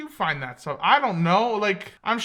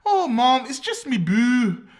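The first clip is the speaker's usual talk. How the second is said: put-on Scottish accent; 4 semitones higher, 4 dB louder, slower than usual. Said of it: "talking from Brave".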